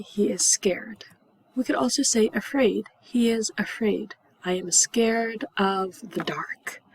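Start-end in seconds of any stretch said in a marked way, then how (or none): 0.0-1.0 slow scared whisper. Shown as a demonstration. Acting scared. 3.0-6.8 slow fearful whisper; scared whisper. Shown as a demonstration. Acting scared.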